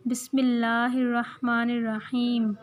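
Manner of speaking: calm model recitation; recited Bismillah. Shown as a demonstration. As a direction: recite it clearly for the children. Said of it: "तस्मिया क्या होता है?".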